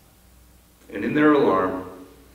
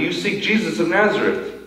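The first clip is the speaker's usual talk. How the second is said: matter-of-fact angel; 4 semitones higher than usual. Pretend. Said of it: "very matter-of-factly".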